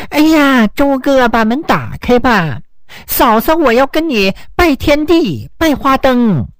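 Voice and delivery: mock a simpering woman, a touch teasing; flirty woman imitation. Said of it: "窗外有个女人骚里骚气的就开始叫".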